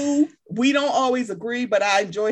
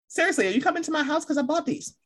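quick eager plea, pitched up; eager fan; 6 semitones higher, faster than usual. Retold or imitated. Talking to an imagined celebrity, quick eager plea. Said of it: "I'm sitting here like".

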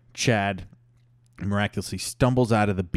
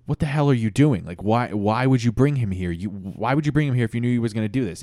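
pissed off; 3 semitones higher, 3 dB louder than usual. Acted. Maurice scolding Brad for bringing Chad, pissed off. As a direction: pile on indignant questions. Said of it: "was really pissed".

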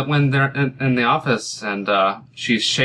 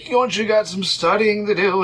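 mock-angry, pitched up; playful anger; 10 semitones higher than usual. Actor riffing as Dumbledore at students, playfully angry. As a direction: play at scolding, for fun. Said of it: "I'm gonna play angry for fun".

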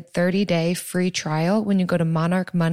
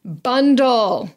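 punchy ad-style slogan, a touch higher; commercial pitch; 3 semitones higher, 3 dB louder than usual. Real, not acted. Co-host pitching an insurance tip, like a commercial. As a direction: sell it like a TV commercial. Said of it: "I know I sound like a commercial".

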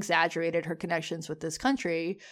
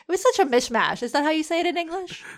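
mock Spanish accent; 9 semitones higher, 4 dB louder than usual. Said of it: "Is that the right word?".

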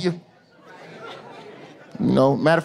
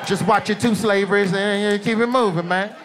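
on-screen prompt. Acted. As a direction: gently talk a buddy out of more viewing. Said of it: "a prompt should just come up on the screen".

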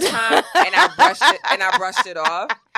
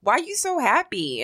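mimicked nosy coworker; 4 semitones higher than usual. Retelling a messy coworker's remark at work, lightly mimicked.

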